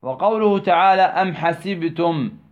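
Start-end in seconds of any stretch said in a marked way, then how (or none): 1.0-2.4 slow recitation. Shown as a demonstration. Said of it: "هذه النون أيضًا نون ما بها".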